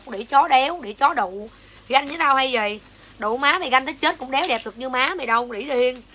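real heated insults, starting loud; angry cursing. Real, not acted. Seller accusing a commenter of envy, angry cursing. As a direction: lash out at a jealous rival. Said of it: "em chửi xong".

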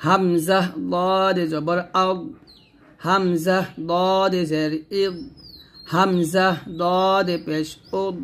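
slow spelling with দদ thick and held, the ending left unbounced; correct heavy dad. Shown as a demonstration. Teacher modelling the correct dad for learners, slow and heavy. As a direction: draw out দদ and close আগ, ইদ, উদ without any echo. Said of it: "করতে হবে এরকম".

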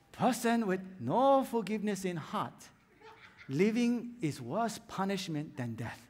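Mister Miyagi. Retold or imitated. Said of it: "Mister Miyagi said it this way".

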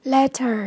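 "Letter" stressed on LET; weight on LET in "Letter", falling after; stress on first syllable. Shown as a demonstration. Teacher modelling vocabulary for learners, "Letter" stressed on LET. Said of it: "nhấn âm một".

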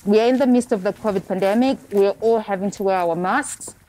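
muffled, talking through a face mask. Real, not acted. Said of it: "You're going to hear my voice muffled".

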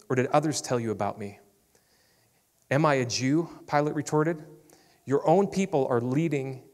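measured Bible reading to the congregation; scripture reading. Acted. Pastor reading John to the church, measured. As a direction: read the passage with steady weight.

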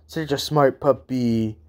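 lightly voiced, slow puppy praise; talking-to-dogs voice. Round-faced girl praising Akamaru, light doggy-talk voice. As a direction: coo a little, as people do to dogs. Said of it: "doing that little voice that everybody does with dogs".

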